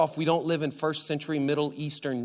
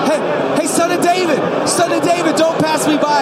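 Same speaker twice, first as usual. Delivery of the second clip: high, loud pleading shout; acted beggar's urgent cry; calling out; 13 semitones higher, 13 dB louder than usual. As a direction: call over a roaring crowd. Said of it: "you say it".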